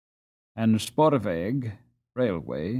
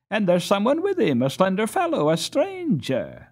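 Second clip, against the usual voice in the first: put-on high eager boyish voice; excited boy; 9 semitones higher, 3 dB louder than usual. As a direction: point him out with excitement. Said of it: "exclaimed Karl".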